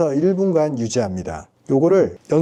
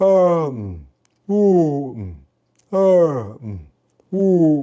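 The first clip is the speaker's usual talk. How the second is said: yawning vowels, much slower. Demonstrating a vocal warm-up exercise, vocalizing as if yawning. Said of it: "약간 하품하듯이".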